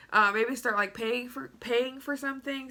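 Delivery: blocked nose, congested; stuffy nose. Real, not acted. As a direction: talk through a stuffy nose. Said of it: "Sorry, I'm so stuffy".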